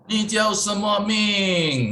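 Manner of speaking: mimicking a Western learner saying "Ni jiao shenme ming" in one flat level tone; mock bule Mandarin, flat and slow; foreigner's flat tones. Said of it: "Nah, dia begitu".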